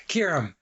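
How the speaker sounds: "Kieran" said as KEER-um, after the Scot; copied pronunciation. Shown as a demonstration. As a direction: try "Kieran" as a careful "keer-um". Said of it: "I hope I got that right".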